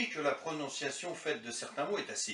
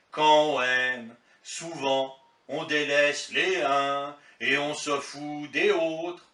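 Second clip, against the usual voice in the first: declaiming; 2 semitones higher, 5 dB louder than usual. Acted. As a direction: declaim like a hammy stage actor. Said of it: "je déclame une lettre de rupture dans ce style".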